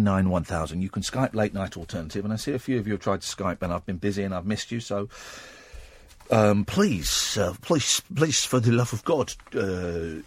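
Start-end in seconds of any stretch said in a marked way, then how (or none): 6.3-10.2 halting put-on Dutch accent; hesitant mock-Dutch English. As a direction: plead lightly in an imitation Dutch accent. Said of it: "It is my Dutch, my, my Dutch accent".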